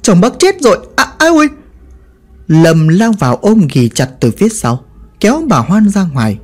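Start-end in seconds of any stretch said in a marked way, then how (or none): 0.0-1.5 yelping higher, scolding a crazed aunt; ouch, fending her off in alarm; pained protest. Acted. Đạt yelping at Bà Hoan as she claws at him. Đạt fights off scratching widow.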